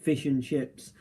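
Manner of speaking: put-on everyday English accent; plain English accent, imitating the switch back; normal English accent. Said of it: "normal English accent and went".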